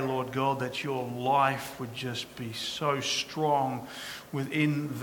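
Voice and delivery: hushed, earnest pastoral prayer. Acted. Pastor praying over the congregation, hushed and earnest.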